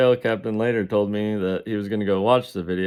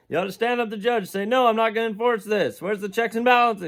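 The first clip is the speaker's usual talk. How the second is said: squeaky high lecture; 13 semitones higher than usual. Retold or imitated.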